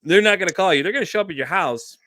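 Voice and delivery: loud emphatic warning. Real, not acted. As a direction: drive the point home hard. Emphatic warning about Homeland Security.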